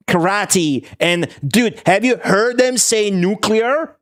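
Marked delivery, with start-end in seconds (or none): 0.1-0.9 drawn-out karate. Shown as a demonstration. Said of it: "You're supposed to pronounce shit wrong".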